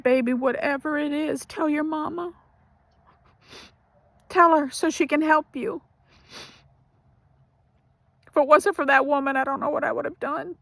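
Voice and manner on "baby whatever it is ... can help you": higher, tender retold voice; gentle urging. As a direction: gently coax a frightened child, imitating a kind woman. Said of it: "the lady was so gentle".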